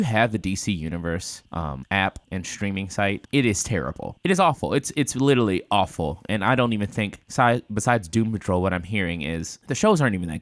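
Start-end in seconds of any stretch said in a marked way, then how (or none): 4.2-6.2 exasperated. Real, not acted. Ranting about DC app.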